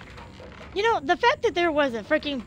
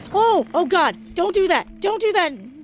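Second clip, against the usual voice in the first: panicked; 4 semitones higher, 4 dB louder than usual. Real, not acted. Companion in danger.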